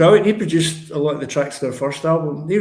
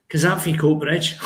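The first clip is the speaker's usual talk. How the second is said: put-on dropped posh accent; 3 dB louder than usual. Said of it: "she dropped her accent".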